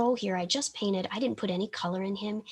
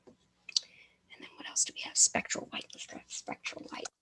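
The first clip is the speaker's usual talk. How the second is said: mumbling around a brush in mouth; 4 dB quieter than usual. Real, not acted. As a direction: talk with a brush between your teeth. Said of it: "I have my brush in my mouth".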